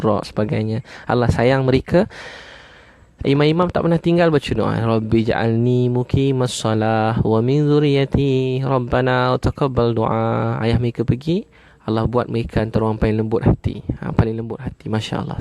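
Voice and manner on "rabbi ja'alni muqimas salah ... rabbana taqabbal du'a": slow, measured chanting of the Arabic prayer; slow prayer recitation. Acted. Preacher recites the prayer to the congregation, slow and reverent.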